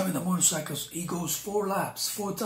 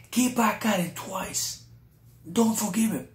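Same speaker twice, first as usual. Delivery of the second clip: devil's voice; 3 semitones higher, 4 dB louder than usual. Retold or imitated. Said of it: "that was the voice of the devil".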